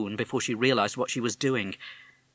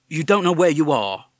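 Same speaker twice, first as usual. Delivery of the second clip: policeman; 7 semitones higher, 10 dB louder than usual. Acted. Policeman questions caller.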